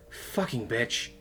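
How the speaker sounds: slow, drawn-out resentful curse; bitter inner curse. A narrator's reading. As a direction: spit it slowly at a rival. Inner curse at rival while drinking.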